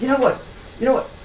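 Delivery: high, panicked inner voice, words rattled off fast.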